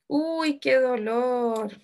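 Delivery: slow, drawn-out acted complaint of pain; exclamación de dolor. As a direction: stretch it out like a mild wail. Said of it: "o está exclamando algo". (quejido lento y actuado)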